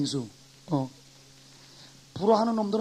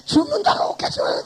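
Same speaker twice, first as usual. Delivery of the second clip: mock whisper; 13 semitones higher, 3 dB louder than usual. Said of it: "그 세미가".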